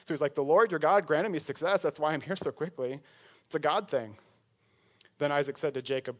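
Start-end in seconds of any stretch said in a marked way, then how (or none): 0.4-4.1 lightly mocking church-speak; mock Christianese. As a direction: play up the pious cover story. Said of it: "it's the Christianese he's learned to speak".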